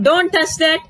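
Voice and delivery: firm warning; command. Shown as a demonstration. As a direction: order them to stop. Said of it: "That's a command".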